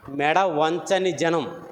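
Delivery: every word of మెడ వంచని జనం drawn out slowly; slow teaching emphasis; slow and deliberate. Shown as a demonstration. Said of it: "stiff నెక్కెడ్ people అంటాడు దాన్ని".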